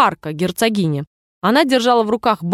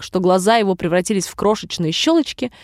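ordinary delivery

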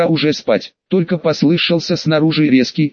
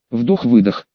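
slow deliberate breaths; deep breathing; 4 semitones lower than usual. Acted. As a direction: breathe in and out heavily. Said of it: "схватился за дыхание".

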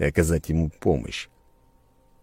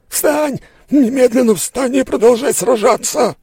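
very high, loud enraged bellow; furious roar; 8 dB louder than usual. A narrator's reading. Merchant roaring at the fallen duelist, furious. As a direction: roar at him to get up. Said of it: "заорал он".

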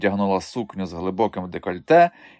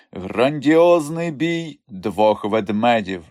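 poster announcement; 2 semitones higher, much slower than usual. Acted.

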